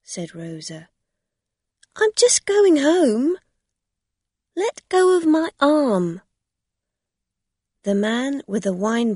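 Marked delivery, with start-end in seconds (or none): 2.0-6.2 high, loud cry to be let go; pleading cry. Acted. Rosa shouts at the woman gripping her arm to let go. Rosa pulls free from a stranger.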